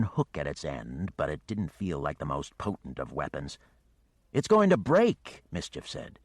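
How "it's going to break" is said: panicked. Acted. Mischief panics.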